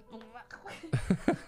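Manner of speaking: mock retching noise breaking into laughter; imitated throwing up. Imitating boyfriend puking behind the door, mock retch. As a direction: act out someone vomiting. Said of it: "he goes, you hear the".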